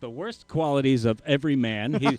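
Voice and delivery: lightly voiced bad Captain Kirk; a hint of pompous cartoon captain; Zap Brannigan. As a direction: put on a slight space-captain voice. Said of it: "he's got the voice down".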